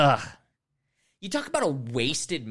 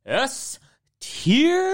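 excited verdict; 12 semitones higher than usual. Real, not acted. Ranking a loved movie.

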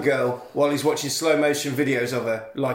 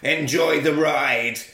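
slow ominous phone voice; 2 semitones higher, slower than usual. Retold or imitated. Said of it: "the phone says".

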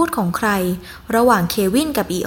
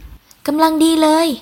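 higher, drawn-out, contented answer; pleased reply; 6 semitones higher, much slower than usual. A narrator's reading. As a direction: call back slowly, well pleased. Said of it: "ส่งเสียงตอบอย่างชอบใจ". (ตอบเสียงสูงอย่างชอบใจ)

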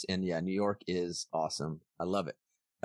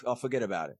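put-on New York accent; faster than usual. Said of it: "he's dropping like".

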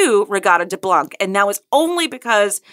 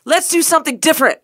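quick, higher-pitched fake American accent; mock American quote, pitched up; bad American accent; 6 semitones higher, faster than usual. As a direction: do a poor American accent, briskly. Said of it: "that was your American accent".

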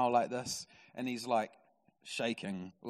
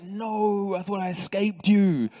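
loud, higher comic wail; hammed-up horror at being found; mock dismay; 6 semitones higher, 9 dB louder, slower than usual. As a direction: cry out in exaggerated despair. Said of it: "And he's like".

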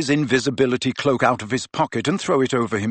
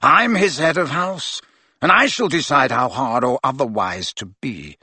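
curt Snape. Acted. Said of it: "said Snape curtly".

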